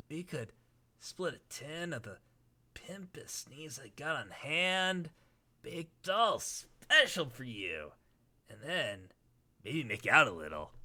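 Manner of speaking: very soft, drowsy clown voice; Gamzee voice. Acted. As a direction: mellow murmuring clown. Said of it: "how was my Gamzee".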